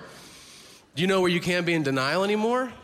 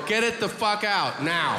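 slow, higher-pitched mock demand; retold urgent demand; 5 semitones higher than usual. Patient ordering the doctor to get it out, retold urgent demand.

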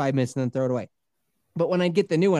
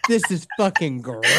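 retold disgust. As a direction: stretch out the revulsion.

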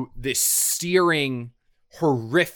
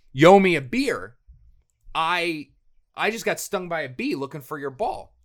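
higher, louder, jokey complaint; mock demand; 6 semitones higher, 4 dB louder than usual. Telling the golf partner he owes a beer, mock indignant and loud. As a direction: ham up the grievance to his partner.

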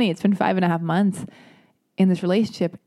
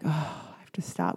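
whispered to herself; 2 semitones lower, 9 dB quieter than usual. Retold or imitated. Quoting her own stressed thought.

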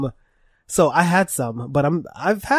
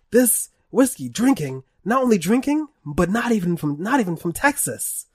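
Hank Hill; 6 semitones higher, 4 dB louder than usual. Pretend. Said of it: "It's like".

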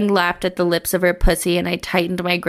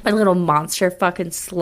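hammed-up echo of the line; mock monster lover. Friend repeating the line, mock seductive. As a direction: savour the line in a put-on voice. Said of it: "repeating the line mockingly".

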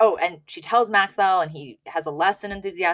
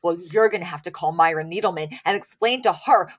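building to a higher, louder indignant finish; mock enraged rant; 3 semitones higher, 5 dB louder than usual. Host imitates Sylvia scolding the doctor, mock indignant and rising. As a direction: scold the doctor like an offended mother. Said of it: "enraged and she's like".

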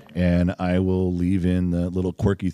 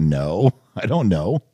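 laughing; slower than usual. Retold or imitated. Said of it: "He's like".

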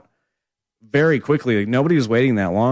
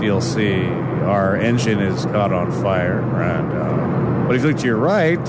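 pilot announcement; slower than usual. Acted. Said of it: "the best part of being a pilot".

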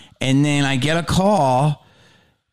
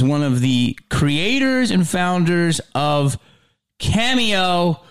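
announcer welcome; 4 semitones higher, slower than usual. Acted. Host formally welcoming the guest.

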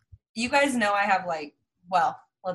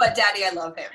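laughing quote; 3 semitones lower, faster than usual. Retold or imitated. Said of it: "I said out loud".

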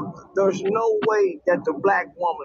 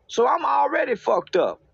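emphatic raised voice; 5 semitones higher than usual. Real, not acted. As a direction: hammer the line home. Repeated punchline, raised emphatically.

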